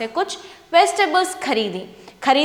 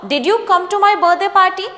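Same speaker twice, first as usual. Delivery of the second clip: slow, higher and louder question with a rise; slow model reading; 6 semitones higher, 5 dB louder, much slower than usual. Shown as a demonstration. Teacher modelling a question for students to repeat, slow and clear. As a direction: say it slowly and clearly so students can copy. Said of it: "So बोलो".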